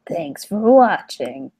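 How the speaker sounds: slow, drawn-out mock outro; YouTuber sign-off. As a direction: stretch out a video host's goodbye. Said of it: "Was that your impression?".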